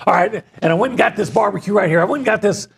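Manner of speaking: a light take on an eager football analyst; Jim Turner impression. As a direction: hype up the barbecue like a play breakdown. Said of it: "How would he do it?".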